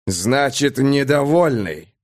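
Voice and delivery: slow threatening sneer; menacing rider voice. Acted. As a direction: drag it out with menace.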